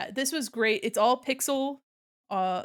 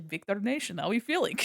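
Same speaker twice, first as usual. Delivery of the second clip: imitated D&D character accent. Retelling a D&D game running joke, imitated character accent. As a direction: quote the catchphrase in the character's accent. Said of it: "D and D character with that accent".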